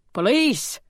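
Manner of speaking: high alarmed gasp of a word. A narrator's reading. Olivia realising police are at the door, alarmed high gasp. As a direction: catch your breath on it, startled. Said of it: "she gasped".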